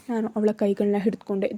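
plain reading voice

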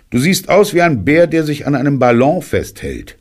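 put-on high, bright little boy answering; high boy's voice. A narrator's reading. Boy telling Pooh how he looks, high and childlike.

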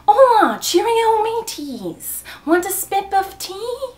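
high, loud mock British accent; hammed-up British greeting, swinging high. Shown as a demonstration. Doing the accent challenge for fans, hammed-up British accent.

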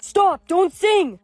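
alarmed interruption; urgent warning. Acted. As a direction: cut in to stop the singing. Urgently stopping someone singing.

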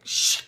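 imitated crack, a sharp shh; lip-crack sound. Vlogger showing viewers how the cold lip split, imitated cracking noise. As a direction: mimic a crack with a quick shushing noise. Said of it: "My lip just cracked like".

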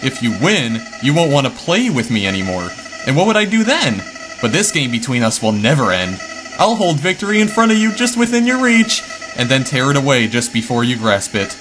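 a taunting little villain who turns mocking and menacing; gloating villain flower. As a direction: sneer at them as the flower who wins every game.

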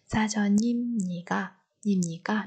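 사전입니까 with ㄴ carried into 입; linked sounds. Shown as a demonstration. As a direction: run 사전입니까 together as "sa-jeo-nim-ni-kka". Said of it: "Nối âm". (đọc nối âm 사전입니까 thành "sa-jeo-nim-ni-kka")

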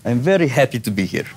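a light Russian accent on I'm very happy to be here; understated Russian accent. Shown as a demonstration. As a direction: switch into a mild Russian accent for the line. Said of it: "But the Russian accent".

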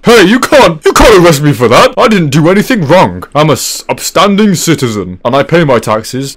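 indignant citizen, lightly acted; protesting arrestee. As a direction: plead innocence to an officer. Chocolate character protests being arrested.

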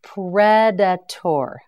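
Predator. split slowly into its parts; Predator. stretched to twice its length; slow syllable-by-syllable. Shown as a demonstration. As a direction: spell it out in sound, very slowly.

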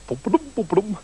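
bouncy "boom-ba-dum" climbing rhythm; sing-song imitated clambering; climbing noise. A narrator's reading. Narrator mimics prince climbing the hair, bouncy rhythmic noise.

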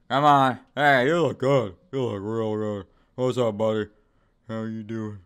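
loud fake-cheerful hello; hammed-up buddy voice; sarcastic loud friendliness; mock friendly greeting.

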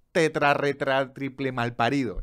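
tetra, retra drawn out and punched; escalating insult; emphatic swearing. Shown as a demonstration. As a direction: spell out tetra, retra slowly. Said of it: "utilizando la exponenciación".

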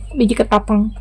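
soft confirming murmur of Biji ketapang; quiet repeat. Real, not acted. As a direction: repeat Biji ketapang under your breath to settle it. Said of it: "eh, bukan biji salak".

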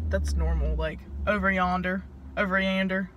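put-on joking Southern accent, laughing it off. Joking with Sydney about yonder, in a light Southern accent. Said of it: "we're like".

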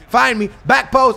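calling out for the ball. Real, not acted. Calling for the pass in game.

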